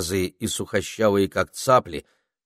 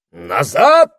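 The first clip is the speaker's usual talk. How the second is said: high, loud shout of warning; high shrill-free wizard shout; 6 semitones higher, 11 dB louder than usual. A narrator's reading. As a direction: yell it to drive the intruder back. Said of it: "прокричала фигура".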